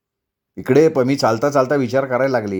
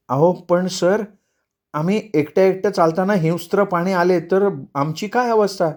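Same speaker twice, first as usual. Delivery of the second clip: higher-pitched voice with mild worry; worried walker; 4 semitones higher than usual. Acted. Friend asks the tour leader about wild animals, mildly worried. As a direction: question the guide, a touch anxious.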